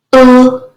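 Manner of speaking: "l" held as "ull"; just the sound "l", drawn out; isolated phoneme. Shown as a demonstration. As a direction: sound out "l", not "el". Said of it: "substituting phonemes".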